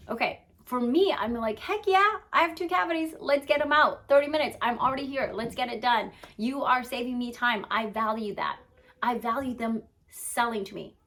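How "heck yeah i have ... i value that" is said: excited yes. Retold or imitated. Customer eager to buy now.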